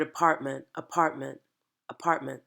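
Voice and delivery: apartment with both T sounds softened away; dropped T sounds. Shown as a demonstration. Accent coach showing actors how to lose Ts, dropped consonants. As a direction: say apartment, swallowing the middle and final T. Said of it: "we're not gonna hear our N Ts".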